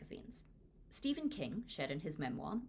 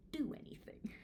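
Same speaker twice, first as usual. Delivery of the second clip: a breathy whisper of defeat; 8 semitones higher, 4 dB quieter than usual. Acted. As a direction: let it fall away into a whisper. Helpless confession about drawing.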